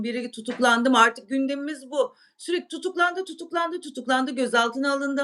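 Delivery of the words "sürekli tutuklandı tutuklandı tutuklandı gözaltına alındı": mocking repetition. Mocks constant arrest news.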